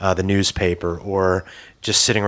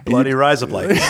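put-on higher, laughing Aussie accent; Australian accent; 4 semitones higher, 4 dB louder than usual. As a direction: play up the Australian accent through giggles. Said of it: "try and say it with an Australian accent".

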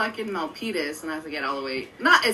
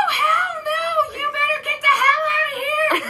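high yelling mock outburst, louder; retold shout; 4 dB louder than usual. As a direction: yell them out like an angry roommate. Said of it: "and she's like".

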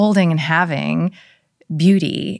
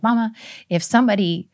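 a hint of a whiny daughter; imitating daughter; 3 semitones higher than usual. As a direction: play the indignant kid objecting. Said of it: "I don't know why I'm talking like that".

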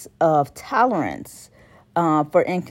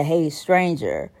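slow, soft, teasing "Hey, stranger"; drawn-out hey stranger; 3 semitones lower, 4 dB quieter, slower than usual. Retold or imitated. Mocking the texter, slow soft "Hey, stranger". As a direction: draw out "Hey, stranger" slowly and quietly, sly. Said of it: "as opposed to being like".

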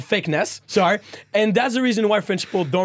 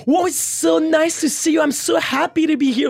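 mock gushing tourist, much higher pitched; overexcited American; 10 semitones higher than usual. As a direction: ham up a too-eager American greeting. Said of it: "don't be like".

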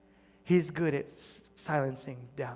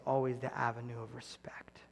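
hushed; 4 semitones lower, 6 dB quieter than usual. Real, not acted. Preacher to congregation, whispered. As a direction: drop to a whisper on the key phrase. Intimate point in sermon.

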